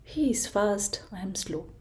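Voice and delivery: soft, inward murmur; tortoise thinking quietly. Acted. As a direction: think it to yourself, hushed. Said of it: "tortoise kept on thinking".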